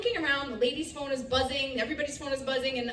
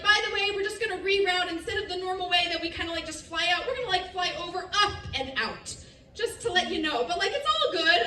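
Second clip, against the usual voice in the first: quick, higher-pitched casual patter; breezy crew announcement; 4 semitones higher, faster than usual. Retold or imitated. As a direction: toss it off as no big deal. Airline crew casually announcing reroute.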